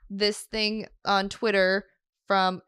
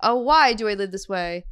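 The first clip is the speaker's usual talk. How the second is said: Midwestern chorus. Pretend. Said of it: "let me whiteify it".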